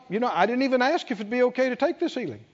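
fast, slightly hushed worried inner voice; anxious inner thought. Retold or imitated. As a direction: rush it like a guilty thought. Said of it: "Maybe she thought".

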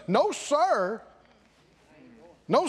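usual speaking voice

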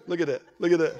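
chuckling, delighted laughter; God laughing. Retold or imitated. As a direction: laugh with fatherly delight as you point.

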